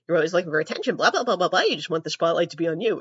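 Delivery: lightly voiced mocking dad, quick at the end. Imitating dad scolding her about attention, a light mocking tone. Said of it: "and he's like".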